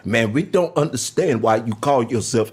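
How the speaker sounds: put-on weak African accent; a light African accent. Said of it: "That's my weak, uh, African accent".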